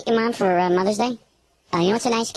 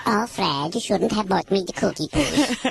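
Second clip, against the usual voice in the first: mother impression; slower than usual. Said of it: "Great impression".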